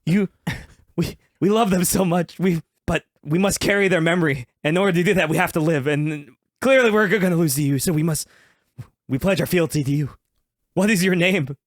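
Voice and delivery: a touch of solemn pledge; lightly voiced turtle ninja.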